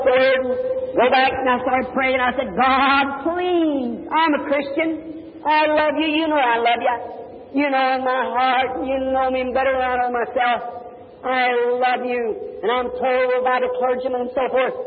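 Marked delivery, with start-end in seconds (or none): 2.6-12.3 pleading prayer. Retold or imitated. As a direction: plead with God as if breaking. Retelling his desperate night prayer.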